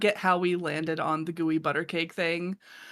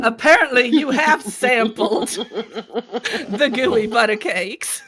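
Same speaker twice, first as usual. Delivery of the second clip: teasing; 3 semitones higher than usual. Real, not acted. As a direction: draw it out gleefully, laughing. Teasing friend with recorded evidence.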